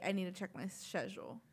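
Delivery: imitating "schedule" with a British sh; British pronunciation. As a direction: quote it with "schedule" as shed-jool. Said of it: "with the British accent".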